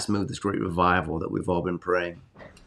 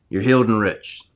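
louder, emphatic declaration; firm, raised-voice blessing; called out loud; 5 dB louder than usual. Shown as a demonstration. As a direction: say it out boldly after a sneeze. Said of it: "I yell it out loud too".

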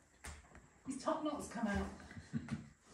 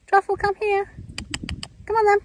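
calling out; 12 semitones higher, 15 dB louder than usual. Real, not acted. Calling animals across a field.

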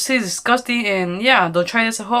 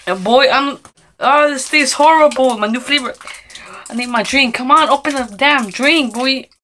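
loud disgusted complaint; 3 semitones higher, 6 dB louder than usual. Real, not acted. Reacts to horrible taste.

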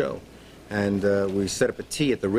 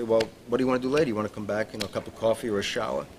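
brash come-on; faster than usual. Retold or imitated. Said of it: "I was this brash, ugly American".

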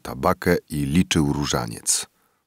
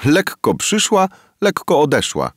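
spiteful; 12 semitones higher, 4 dB louder than usual. A narrator's reading. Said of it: "rzekła złośliwie wieśniaczka".

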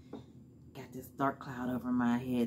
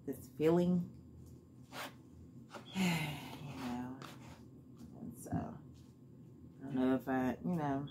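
eating while speaking; talking with fork at mouth; 5 dB quieter, slower than usual. Real, not acted. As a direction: mouth partly blocked by fork. Seen 1: Fork held at her mouth while talking between salad bites, early on.

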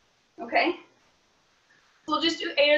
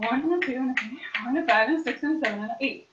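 fast counting; faster than usual. Acted.

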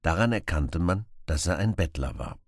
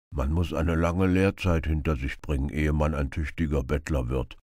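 earnest beggar. Acted. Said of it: "erklärte der Bettler ernsthaft".

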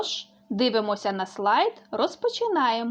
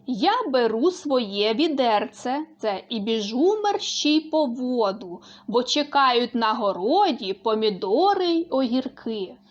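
clear poem reading. Shown as a demonstration. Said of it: "чітко вимовляючи звук р, л".

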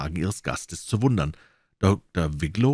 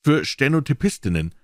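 slow repetition; 6 semitones higher, 3 dB louder than usual. A narrator's reading. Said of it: "wiederholte er langsam".

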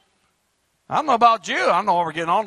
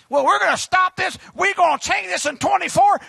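mock boast; 9 semitones higher, 5 dB louder than usual. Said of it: "mocking marchers' boast".

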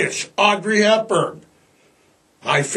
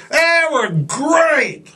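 mock drugged dad; 8 semitones higher, much slower than usual. Drugged dad answering nanny.

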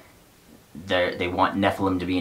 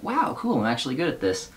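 hammed-up surprise, jumping higher on wow; mock delighted; 4 semitones higher than usual. Reviewer imitates Lori beating the soldiers, giddy. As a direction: imitate a giddy girl thrilled at herself. Lori pleased with her magic.

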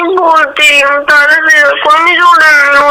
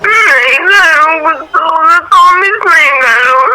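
crying. Real, not acted. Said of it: "બસ હવે રોવાનું બંધ કર યાર".

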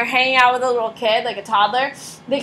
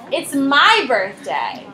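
put-on insistent kid; 3 semitones higher, much slower than usual.

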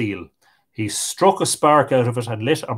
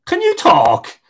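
astonished; 9 semitones higher, 6 dB louder than usual. A narrator's reading. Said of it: "said Tig".

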